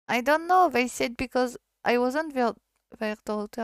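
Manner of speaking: high, loud, tearful outburst; tearful cry. Acted. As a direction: wail it out near tears. Girl tells teacher she's disowned.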